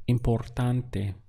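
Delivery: importante joined back up, slow and clear; slow model word. Shown as a demonstration. Teacher blending the syllables back together, slow. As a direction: say importante whole, slowly. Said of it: "Let's count the syllables".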